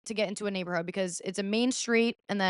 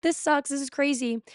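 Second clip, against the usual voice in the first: all innocent; 6 semitones higher than usual. Retold or imitated. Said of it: "I'm, like, all innocent".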